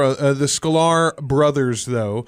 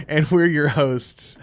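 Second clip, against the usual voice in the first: slow; slower than usual. Shown as a demonstration. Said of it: "You wanna do the intro?".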